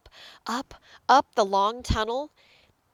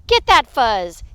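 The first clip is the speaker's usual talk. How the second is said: loud order at normal pitch; punchy grab-it command; fighting command; 7 dB louder than usual. Acted. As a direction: give a firm, loud order. Prairie dogs fight over fuzz.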